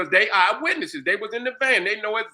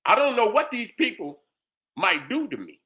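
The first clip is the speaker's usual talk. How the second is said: slower retold quote; 4 semitones lower than usual. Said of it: "Let me translate that".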